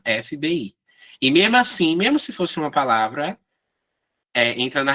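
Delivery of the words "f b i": each letter of F B I named separately; spelled out. Shown as a demonstration.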